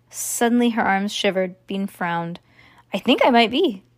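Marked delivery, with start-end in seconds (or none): 2.9-3.8 squeaky voice. Acted. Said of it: "said Ivy in a squeaky voice".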